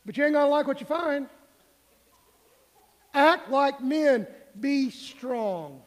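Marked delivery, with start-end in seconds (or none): 3.1-5.8 loud, slow, punched exhortation; forceful command. Real, not acted. Preacher rallying the congregation, loud slow command. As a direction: drive each word home, slow and loud.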